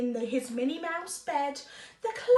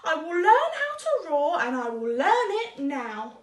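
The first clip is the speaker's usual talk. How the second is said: determined mouse; 4 dB louder than usual. Acted. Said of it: "thought the mouse".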